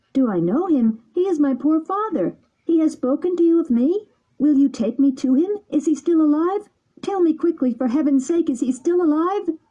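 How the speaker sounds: put-on high, urgent boy voice; anxious puppet. A narrator's reading. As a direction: beg for news anxiously. Pinocchio eager for father.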